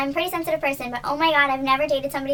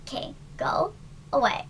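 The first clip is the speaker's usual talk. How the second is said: slow, soft, nearly whispered; hushed dismissal; 5 dB quieter, slower than usual. Retold or imitated. Dad to daughter's ex in the lobby, hushed dismissal. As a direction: lightly act a dad quietly sending someone off.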